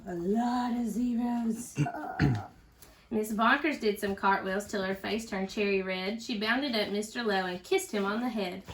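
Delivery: put-on lively storybook reading for kids; reading to children. A narrator's reading. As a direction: read it out to a little one, with bounce. Teacher reads picture book aloud.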